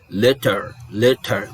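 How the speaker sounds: "letter" with a crisp British T; British English. Shown as a demonstration. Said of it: "inglês britânico".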